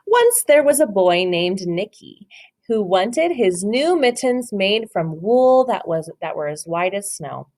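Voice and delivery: slow, gentle read-aloud voice; story narration. Acted. Teacher reads The Mitten to her class, storybook voice. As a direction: read it like a picture book for little ones.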